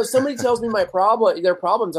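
ordinary talk, nothing marked

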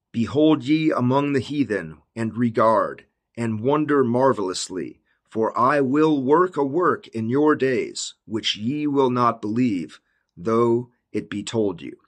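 slow, measured scripture reading. Acted. The Lord answering in scripture, read slowly and solemnly. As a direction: read it out slowly and deliberately, phrase by phrase.

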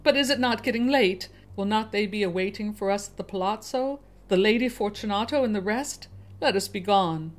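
a doomed man laughing it off; nervous Fortunato. Acted. Fortunato pleads, voice rising.

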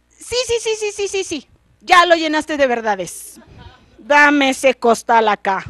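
high, hurried, loud; flustered king. Acted. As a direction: cut him off in a panic.

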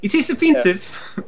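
put-on performance voice. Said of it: "give me a performance check".

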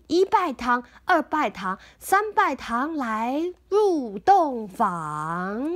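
a mild mock ceremony call, last line drawn out very slowly; wedding officiant call. Parent plays the wedding announcer for the child, lightly chanting. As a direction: announce the bows like a playful master of ceremonies.

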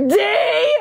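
high, drawn-out mock call; high retold yell; calling over noise. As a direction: imitate spelling it out over music. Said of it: "She tries to spell it out".

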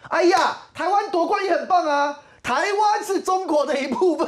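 mocking imitation. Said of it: "他们开始讲".

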